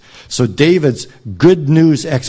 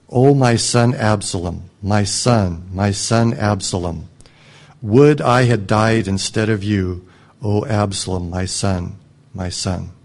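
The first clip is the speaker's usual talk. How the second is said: grieving lament; 3 semitones lower than usual. Acted. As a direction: let the lament sink away to almost nothing. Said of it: "and wept".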